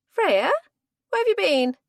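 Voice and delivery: loud, high greeting call. Acted. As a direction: call across the fire pit. Friends call out at fire.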